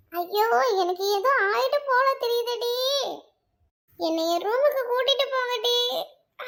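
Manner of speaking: long-drawn pretend moan; fake agony. Friend faking illness to be taken to the room, moaning theatrically. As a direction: wail as if badly ill, play-acted.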